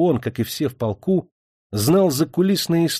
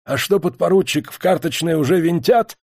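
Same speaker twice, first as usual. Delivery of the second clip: hoarse, wheezing voice; wheezy rasp; 5 semitones higher than usual. Acted. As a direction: rasp it out through a cough. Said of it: "просипел".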